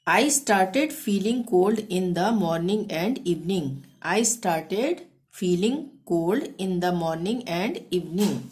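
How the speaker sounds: each English word said very slowly and clearly; slow dictation. Shown as a demonstration. Teacher dictating the English sentence, very slow. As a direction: spell it out slowly for learners. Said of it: "English translation for learners".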